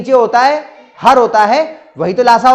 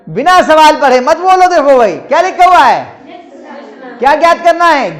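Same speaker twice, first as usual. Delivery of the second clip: firm, louder rebuke; stern scolding; 5 semitones higher, 3 dB louder than usual. Real, not acted. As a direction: tell off the class for answering without reading. Teacher scolds students answering unread. (डाँटते हुए, सख़्ती से)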